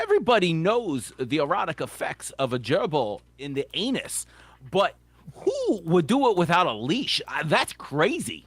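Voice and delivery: a light Walken imitation with odd pauses; Christopher Walken impression. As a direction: quote it with Walken's halting cadence. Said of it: "Jay Moore doing, uh, Walken".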